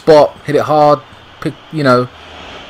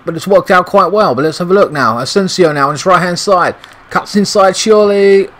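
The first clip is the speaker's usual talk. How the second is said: rising excitement; 4 semitones higher than usual. Real, not acted. Attack building on screen.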